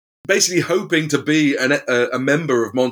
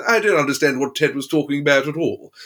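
imitating a famous singer; 3 semitones higher than usual. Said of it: "and he says".

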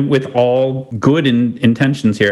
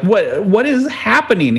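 higher, alarmed, a touch of panic; 8 semitones higher than usual. Retold or imitated. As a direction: sound shocked and lost. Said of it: "I'm like".

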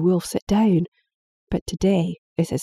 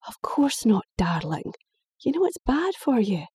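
higher, gentle mother voice; anxious mum saying goodbye; worried mother; 4 semitones higher than usual. Acted.

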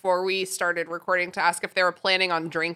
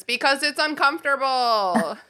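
chorused reply; 5 semitones higher than usual. Retold or imitated. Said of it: "we would all chorus".

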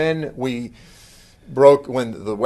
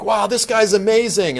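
admiring; 9 semitones higher than usual. Retold or imitated. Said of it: "teachers that you're like".

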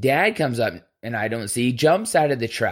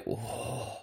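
breathy whispered whoa; 15 dB quieter than usual. Retold or imitated. Stunned reaction to a threat.

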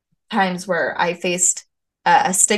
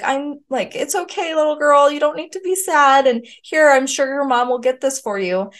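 high, sing-song cooing voice, much higher; mock-sweet baby talk, pitched way up; sugary store worker; 6 semitones higher than usual. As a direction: coo at the crying toddler like a saccharine shop clerk. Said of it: "And she's like".

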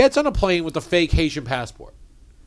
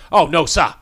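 louder Boston "No, sir"; Boston accent; 5 dB louder than usual. Retold or imitated. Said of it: "my cousins".

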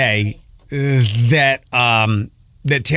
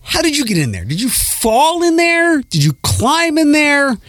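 put-on baby talk to bug; 10 semitones higher than usual. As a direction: coo at the millipede like a pet. Talking to the millipede.

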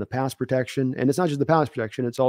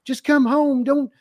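high mock pleading wife; 12 semitones higher than usual. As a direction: beg him to come home. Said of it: "the wife has with the old guy".

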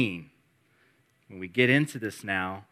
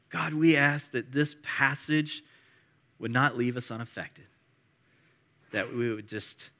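prayer. Acted. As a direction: pray humbly for the church. Pastor leads an opening prayer.

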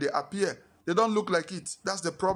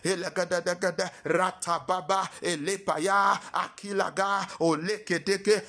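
speaking in tongues. Acted. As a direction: chant in tongues. Praying in tongues.

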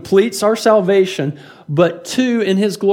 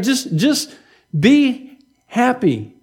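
soothing; 4 semitones higher, much slower than usual. Retold or imitated. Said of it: "this is what Jesus is saying to him".

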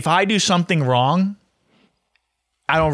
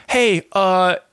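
sing-song client voice, pitched up; mock the client's fake-innocent question, higher; patronizing mock; 4 semitones higher than usual. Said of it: "it's, like, patronizing".

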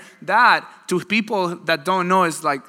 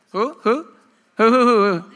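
louder, higher "who, who" calls; loud calling out; 6 semitones higher, 5 dB louder than usual. Real, not acted. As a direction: call out over the room. Crowd banter, calling out.

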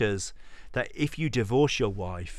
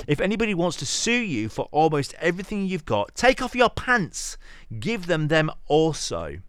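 higher and faster, climbing to the word pants; animated build; 5 semitones higher than usual. Acted. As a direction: sell the absurd twist with rising energy. Building to an absurd punchline.

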